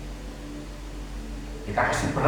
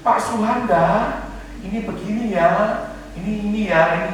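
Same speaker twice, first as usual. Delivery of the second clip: a mild, hesitant gentle Oma; gentle old lady; 4 semitones higher than usual. Retold or imitated. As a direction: Oma Pasar's usual gentle way of speaking. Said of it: "Oma Pasar yang ngomongnya lembut".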